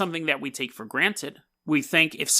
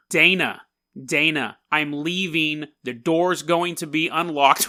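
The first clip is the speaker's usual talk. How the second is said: yelling. Retold or imitated. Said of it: "I'm yelling".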